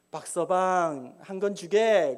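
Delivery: slow, stretched polite address; acted courteous request; warm, kindly. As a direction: ask him gently, drawing out the name. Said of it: "따뜻하게 친절하게".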